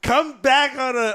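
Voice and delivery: normal talking voice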